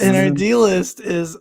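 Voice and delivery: loud, slow grand announcement; dramatic announcer. Acted. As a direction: boom it out like a show host.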